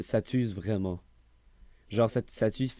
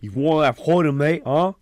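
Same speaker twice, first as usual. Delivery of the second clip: mock aggressive taunt; 6 semitones higher, 9 dB louder than usual. Mock accent confrontation, acted.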